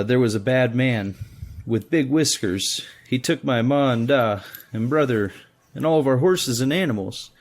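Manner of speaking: put-on high, lilting little child's voice; plaintive child recounting a frightening raid; whiny small child. Frightened girl telling rescuers about the soldiers, whiny child voice. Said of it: "high-pitched, whiny voice only small children can get".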